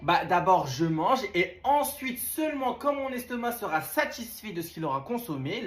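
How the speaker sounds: mock pompous. Teen pompously telling mom food comes first, slow. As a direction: lay it out grandly and slowly.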